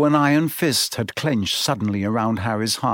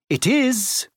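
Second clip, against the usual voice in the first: solemn agreement; 11 semitones higher than usual. A narrator's reading. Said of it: "Firenze agreed".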